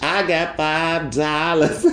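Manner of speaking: slow, giggling; laughing boast. Shown as a demonstration. To listeners, bragging with laughter, slow. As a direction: laugh through the brag. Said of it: "you just make it a big deal".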